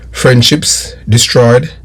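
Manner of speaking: normal talking voice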